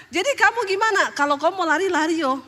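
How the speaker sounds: mild mock yell, starting high; husband's retold shout. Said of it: "Jadi suami saya teriak". (tiruan teriakan suami yang ringan)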